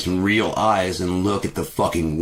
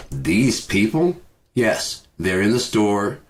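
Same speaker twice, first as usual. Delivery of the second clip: mock cashier; 4 semitones higher, slower than usual. Mocking the cashier again.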